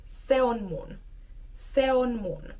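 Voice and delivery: words pushed together, natural flow; smooth connected speech; run together. Shown as a demonstration. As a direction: glide se on mun as one unit. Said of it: "push the words a bit more together".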